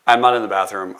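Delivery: laughing it off; laughing denial. Acted. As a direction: deny it through a laugh. Denying being in bathroom.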